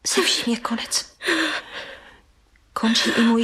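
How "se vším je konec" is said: whispered resignation. Acted. Niece resigned.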